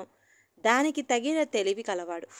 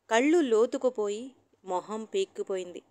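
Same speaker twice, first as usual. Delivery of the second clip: plain reading voice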